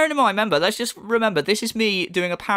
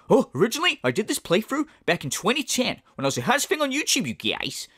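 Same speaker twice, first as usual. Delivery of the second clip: mock boastful DSP; 5 semitones higher than usual. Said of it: "You go".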